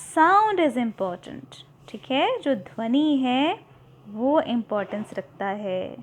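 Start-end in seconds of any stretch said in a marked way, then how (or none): 0.0-1.6 slow emphatic teacher's point; slow emphasis. Shown as a demonstration. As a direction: sound is important said very slowly, each word stressed. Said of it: "So note".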